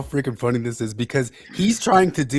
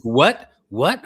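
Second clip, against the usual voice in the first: mock confusion; 2 semitones higher, 5 dB louder than usual. Acting out baffled listeners.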